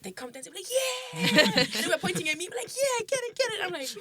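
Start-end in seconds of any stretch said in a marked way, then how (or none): 0.8-1.6 very high, loud party yell; drunk cheer. Retold or imitated. Drunk guys cheering her dancing, high loud yell. 2.7-3.6 very high, loud hype yell; drunk cheering. Retold or imitated. Drunk guys pointing at her dancing, high hype cheer.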